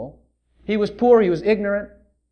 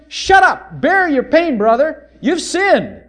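mock pious rebuke; scolding crowd; 4 semitones higher than usual. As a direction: lecture the beggar he deserves it. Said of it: "they're telling him".

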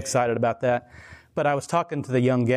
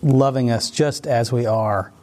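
prayer. Acted. Opening prayer before the talk.

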